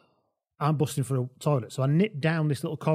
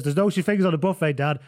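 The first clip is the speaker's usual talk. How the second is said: put-on louder, higher, faulty Irish-tinged accent; stuck Irish accent; 3 semitones higher, 5 dB louder than usual. Ruan tells Dad about buffet, Irish-tinged accent. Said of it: "I'm locked in the Irish one now".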